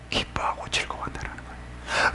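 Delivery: hushed, barely voiced reminder; whispered answer. Real, not acted. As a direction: drop suddenly to a whisper. Preacher answers own question.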